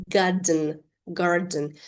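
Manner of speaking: "garden" with no R after the A; silent R in garden. Shown as a demonstration. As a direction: drop the R in "garden". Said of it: "letter R is not pronounced in this word".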